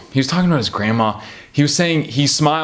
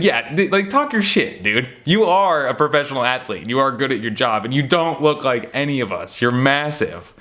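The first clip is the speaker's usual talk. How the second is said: emphatic hype; 3 semitones higher than usual. Retold or imitated. Fan reassuring a professional athlete he's massive, emphatic hype. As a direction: hype him up, insisting on each point. Hyping up the athlete in retold reply.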